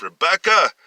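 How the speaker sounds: high, urgent search cry; frantic calling. A narrator's reading. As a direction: call out frantically for someone lost. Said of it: "he was looking frantically".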